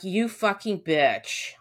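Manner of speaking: slow, drawn-out curse at the dog; exasperated cursing. Retold or imitated. Owner scolding her disloyal dog, slow angry curse. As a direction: spit it out slowly at the traitor dog. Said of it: "I'm like".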